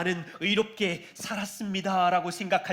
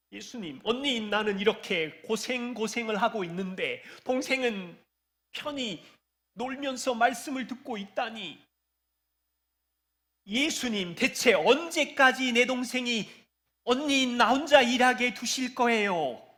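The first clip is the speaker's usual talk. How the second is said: high, put-on aggrieved, resentful grumbling; 5 semitones higher than usual. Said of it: "마르다는 지금 원망을 쏟아내고 있어".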